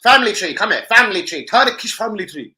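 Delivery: loud, high call across the shop. Retold or imitated. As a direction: shout to get the server's attention. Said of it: "I was like".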